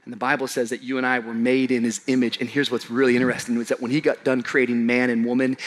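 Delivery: usual speaking voice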